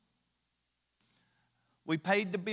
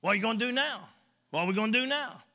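fretting coworker; 3 semitones higher, much faster than usual. Retold or imitated. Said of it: "That's basically this guy right here".

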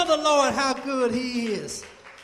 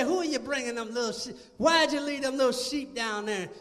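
sneering brother; 4 dB quieter than usual. Acted. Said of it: "you know he was negative".

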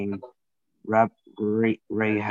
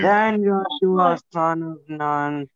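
goofy higher and louder read; silly reading voice; 6 semitones higher, 6 dB louder than usual. Pretend. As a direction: clown through the verse again, pitched up. Repeats silly reading, told to stop.

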